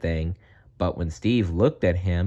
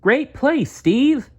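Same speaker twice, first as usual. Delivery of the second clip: high, loud cheer across the field; boy yelling praise at a ballgame, high and loud; yelled; 4 dB louder, slower than usual. Acted. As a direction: shout praise to a teammate. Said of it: "Ben yelled".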